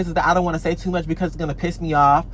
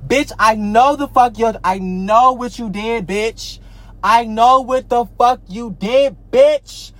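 building confrontation; 3 semitones higher than usual. Acted. Confronting the copycat.

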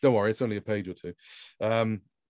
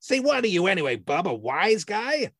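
tough guy; 9 semitones higher, 3 dB louder than usual. A narrator's reading. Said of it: "the dark-suited man".

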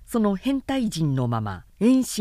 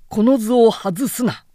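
a louder battle cry; loud urging; 2 semitones higher, 6 dB louder than usual. A narrator's reading. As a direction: seize the moment, shout it. Wen Chou urges attack.

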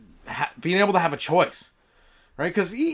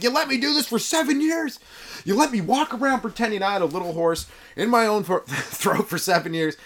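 high-pitched indignant disbelief; incredulous outburst; 6 semitones higher than usual. Acted. Man confronting friends who let him keep lying, in high incredulous protest. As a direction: protest as if outrageously wronged, voice raised in pitch.

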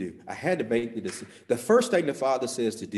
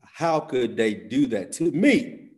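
hurt lament; 5 dB louder than usual. Real, not acted. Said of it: "I was hurt".

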